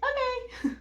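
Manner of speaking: high, laughing okay; amused okay. Retold or imitated. Nurses humouring the mother's request, laughing okay.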